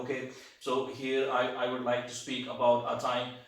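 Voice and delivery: halting, stumbling exam answer; struggling speaker demo. Shown as a demonstration. Teacher showing students how a struggling candidate sounds, halting. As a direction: act out a candidate struggling to get the words out. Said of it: "ਤੁਸੀਂ ਇਸ ਤਰੀਕੇ ਨਾਲ ਬੋਲ ਰਹੇ ਹੋ".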